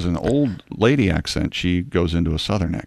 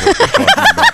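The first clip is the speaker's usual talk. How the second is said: mock innocent; 7 dB louder, much faster than usual. Playing dumb after slip.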